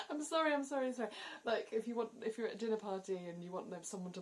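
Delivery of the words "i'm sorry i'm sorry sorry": high, louder rapid-fire "I'm sorry"; hammed-up overapologising; frantic sorries. Shown as a demonstration. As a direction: babble apologies nonstop. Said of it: "you say it a lot".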